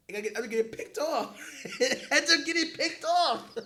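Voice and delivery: loud, high, laughing yell; helpless laughter, pitch soaring; cracking up. Real, not acted. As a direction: shout it through real laughter. Cracking up over the interception.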